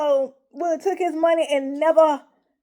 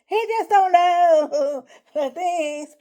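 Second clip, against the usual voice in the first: laughing while talking; 2 semitones higher, much slower than usual. Real, not acted. Laughing while telling story.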